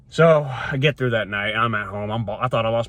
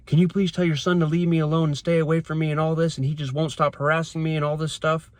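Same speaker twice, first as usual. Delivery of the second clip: higher, whiny mock of the ex's pleading; 6 semitones higher than usual. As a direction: parody her fake victim tone. Mocking ex's text to mother.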